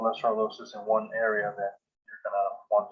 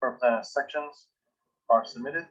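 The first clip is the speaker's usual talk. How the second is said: dictating. Shown as a demonstration. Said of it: "now I'm going to just start dictating".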